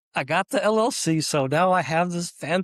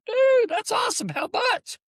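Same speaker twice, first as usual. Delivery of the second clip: thrilled shout; 3 dB louder than usual. Retold or imitated. Offered a bay to rent.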